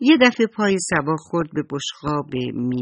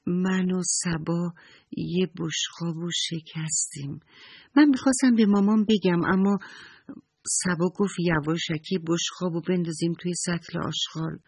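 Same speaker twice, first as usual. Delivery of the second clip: put-on confessing child.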